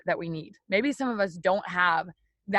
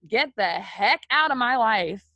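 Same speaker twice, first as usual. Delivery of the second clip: firm, slow and punchy command; forceful rebuke; 4 dB louder than usual. Acted. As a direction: order it out, word by word. Acted rebuke to the devil.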